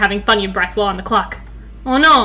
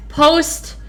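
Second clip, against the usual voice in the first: slow careful reading; 3 semitones higher, much slower than usual. Shown as a demonstration. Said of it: "This is gonna be a struggle".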